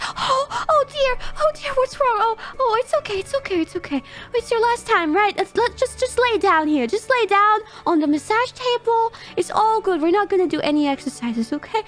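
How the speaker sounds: high-pitched imitation of a fussing mom; suddenly nice. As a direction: coo soothingly, acting out a concerned helper. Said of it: "she suddenly so nice".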